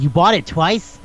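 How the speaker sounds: disbelieving, pitch climbing on the question; retold astonished double-check; incredulous question. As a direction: query it in mock disbelief. Acted disbelieving question in retold dialogue.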